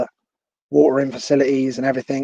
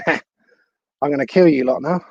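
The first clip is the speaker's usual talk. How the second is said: laughing; 3 dB louder, slower than usual. Real, not acted. Laughing at his own video.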